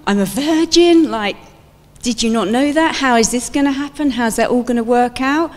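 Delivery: panicked disbelief. Pretend. Mary answering the angel, frantic and panicked. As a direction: rattle it off in mock panic. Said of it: "I'd be pacing up and down".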